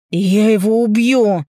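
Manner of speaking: loud, slow threat, leaning on убью; slow furious roar with the stress on убью; father roaring. A narrator's reading. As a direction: bellow it like a father who wants blood. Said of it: "орёт мой отец".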